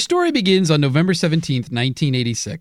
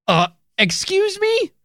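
put-on old prospector; 12 semitones higher than usual. S1 voices cranky old-timer Coomer.

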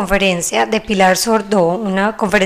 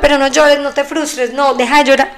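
higher, quicker, mock-scolding adult voice; adult hushing a crying child; 5 semitones higher than usual. People telling a crying child to stop, lightly mock-scolding. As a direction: imitate a grown-up brushing off a child's tears, pitched up. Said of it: "Después es como que".

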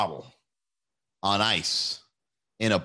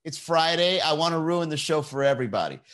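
mock petulant heckler; 5 semitones higher than usual. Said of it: "It's like".

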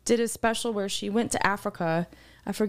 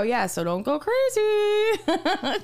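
laughing warning; 8 semitones higher, much slower than usual. Retold or imitated. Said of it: "And I go".

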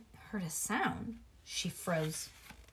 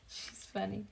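plain reading voice

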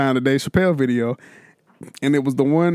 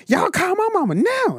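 high shouted falsetto demand; hammed-up child shouting for his mother; mock kid shout. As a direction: yell it like a furious little boy. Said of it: "and he goes".

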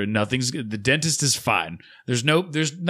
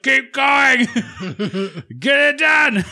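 high, loud, giggling mock bravado; laughing through it; 12 semitones higher, 5 dB louder, slower than usual. Patient telling the dentist to keep going, laughing high. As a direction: laugh while playing it tough. Own retold answer, laughing.

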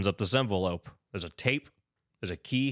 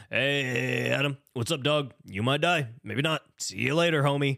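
lightly voiced, casual mock villain; Jigsaw as Rick Sanchez; 2 semitones higher than usual. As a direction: toss off a threat like a laid-back buddy. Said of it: "Okay, that was Rick Sanchez".

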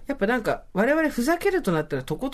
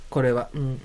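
usual speaking voice

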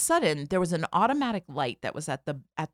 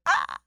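startled yelp. Retold or imitated. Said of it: "deer in headlights, like".

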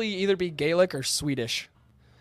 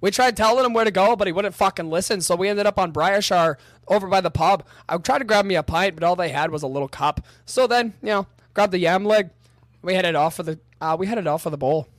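put-on rough British accent; 2 semitones higher, 3 dB louder than usual. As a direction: ramble on as a rowdy British bloke. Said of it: "It's not bad at all".

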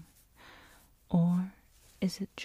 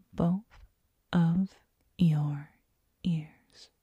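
right in your ear; much slower than usual. Acted. Whispering into listener's ears.

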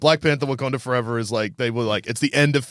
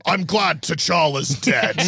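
cold rasping evil emperor; slower than usual. Retold or imitated. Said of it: "I like my Doom voice".

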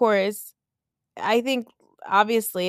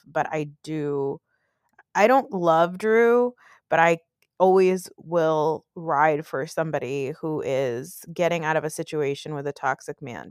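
ordinary delivery

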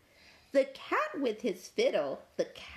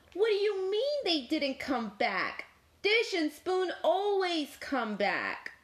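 high, puzzled cow voice; surprised cow; 9 semitones higher than usual. Acted. Cow questioning Cat about dish and spoon, high and surprised. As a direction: squeak it out in disbelief. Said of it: "Cow opened one eye".

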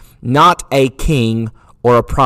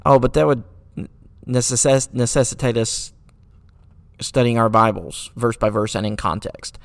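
dry sarcastic aside; sarcasm. Acted. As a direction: feign reluctance at a tiresome chore. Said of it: "Sorry for the sarcasm there".

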